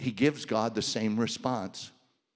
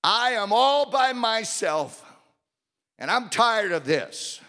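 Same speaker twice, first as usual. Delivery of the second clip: exhausted prophet; 9 semitones higher, 4 dB louder than usual. Acted. Elijah's complaint again.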